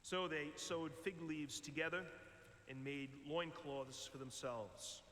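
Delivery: measured liturgical reading, unhurried; scripture reading. Acted. Lector reading Genesis to the congregation, measured liturgical reading. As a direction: proclaim the passage to the congregation. Reads scripture before the homily.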